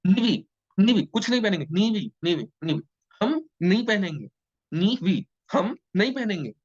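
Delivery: put-on high, playful kid's voice saying no; childish refusal. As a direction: act like a stubborn toddler. Teacher mimics a child refusing clothes.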